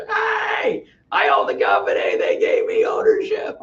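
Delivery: excited yell, pitch jumping high; mock rooftop scream. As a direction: shout it to the whole neighborhood. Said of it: "I start screaming from the roof".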